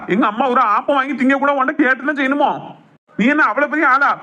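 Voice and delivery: acted indignant scolding. Son defends his mother against his wife, indignant scolding. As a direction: take her to task indignantly.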